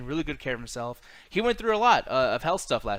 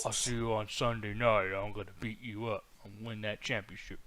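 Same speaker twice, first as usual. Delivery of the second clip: imitating Roman Reigns; 5 semitones lower than usual. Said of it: "You don't think he has a cool-ass voice?".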